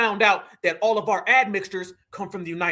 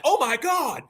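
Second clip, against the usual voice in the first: drawn-out imitation of amazement; mock surprise; 2 semitones higher, slower than usual. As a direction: fake being amazed, slowly stretched. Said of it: "trying to act surprised".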